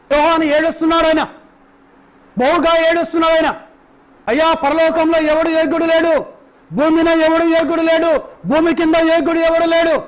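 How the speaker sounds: rhythmic, insistent sermon cadence; fervent preaching. Acted. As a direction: drive each repeated line home to the congregation. Preacher retells John weeping.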